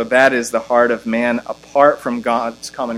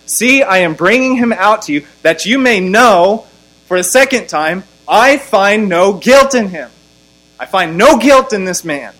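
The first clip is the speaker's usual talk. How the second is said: raised, high declaration to a crowd; loud public proclamation; 7 semitones higher, 6 dB louder than usual. Acted. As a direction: proclaim it loudly like a governor. Voices Pilate announcing to the crowd.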